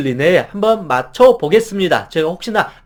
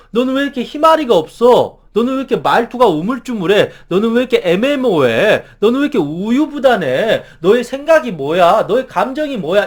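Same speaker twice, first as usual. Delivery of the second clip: higher, louder mock scolding; attacking reproach; 3 semitones higher, 3 dB louder than usual. Boss scolding a wishy-washy employee, mock exasperated. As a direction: needle the timid colleague with questions. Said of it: "나를 더 공격하게 돼요".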